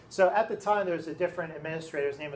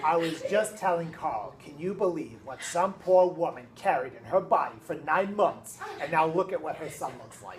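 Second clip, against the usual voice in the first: retelling a colleague's joke while chuckling; laughing through it. Retold or imitated. Teacher retelling a colleague's joke, laughing through it.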